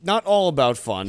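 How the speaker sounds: deadpan, dead level delivery; monotone voice. Acted. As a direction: say it flat, no tune at all. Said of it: "He said in monotone voice".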